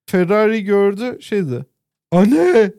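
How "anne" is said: imitated kid yelling for mum; child's shout. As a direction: call out high and loud like an excited child. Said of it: "diye bağırdı". (çocuk gibi bağırma taklidi)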